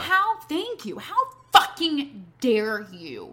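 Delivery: slow, drawn-out outrage; indignant. Real, not acted. Storyteller addressing the absent man who presumed, indignant. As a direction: stretch out each word in offence.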